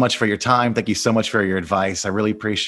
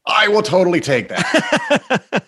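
delighted; 10 semitones higher, 3 dB louder, slower than usual. Real, not acted. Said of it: "delighted host".

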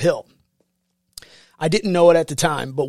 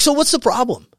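stern question; 9 semitones higher, 3 dB louder than usual. Retold or imitated. Senior drill instructor questions recruit.

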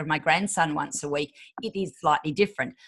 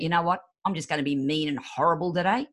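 mock mean; 3 semitones lower than usual. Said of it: "get up in the morning and go".

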